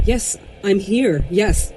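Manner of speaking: anxious pleading. Acted. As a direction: plead to be heard. Frightened narrator answers eerie caller.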